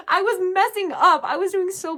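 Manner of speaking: laughing while saying it. Real, not acted. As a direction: laughs through the words. Laughing at own blunder.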